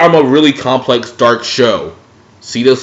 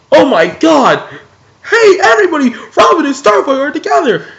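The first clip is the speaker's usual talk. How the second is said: far higher, louder shipper squeal; excited fan announcement; 14 semitones higher, 3 dB louder than usual. Retold or imitated. Fan telling everybody the couple is together, high excited squeal. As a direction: announce it like the best news ever. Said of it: "And you're like".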